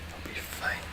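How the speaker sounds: nervous whisper to oneself; anxious self-reassurance. Real, not acted. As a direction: whisper it like a worried mantra. Anxious self-reassurance while playing.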